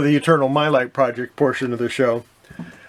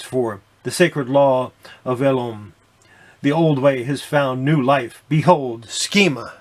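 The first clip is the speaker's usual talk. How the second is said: epic narration; 3 dB louder than usual. Acted. Reads grand comic narration.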